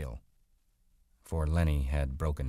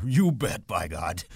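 happy cry; 2 semitones higher, 6 dB louder, slower than usual. A narrator's reading. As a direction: cry it out with simple delight. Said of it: "he cried happily".

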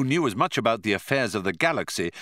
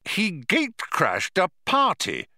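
mild trembling anger; 10 semitones higher than usual. A narrator's reading. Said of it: "trembling with anger".

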